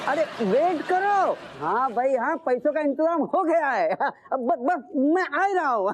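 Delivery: high, excited phone voice; excited reassurance. Acted. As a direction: announce it eagerly, pitch jumping up. Excitedly announcing money is arranged.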